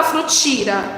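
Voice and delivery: frutira with "ti" in place of "tei"; wrong vowel on purpose. Shown as a demonstration. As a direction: say frutira, a plain I replacing the EI. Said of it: "A gente não fala frutira".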